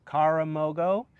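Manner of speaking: "karamogo" with an English R, slowly; American R. Shown as a demonstration. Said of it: "So you don't wanna say".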